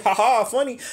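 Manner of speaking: high, sarcastic imitation of laughing friends; mock their laughter, unimpressed; mocking fake laugh. Mocking homeboys who laugh at the fall, sarcastic fake laugh. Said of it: "they out here laughing like shit".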